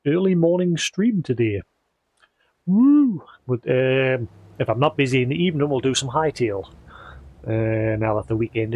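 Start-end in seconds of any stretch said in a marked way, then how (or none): 2.6-3.2 excited whoop. Real, not acted. Cheering early morning stream.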